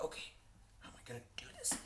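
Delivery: soft unvoiced whisper to herself; whispered worry. Wondering to herself how to move, whispered. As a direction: whisper it, puzzled. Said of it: "And I'm like".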